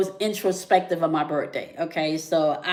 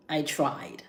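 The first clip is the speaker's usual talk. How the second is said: a hushed whisper, almost breathless; 3 semitones lower, 7 dB quieter than usual. Real, not acted. Repeating to viewers that she tried, whispered. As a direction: let it fall to a whisper.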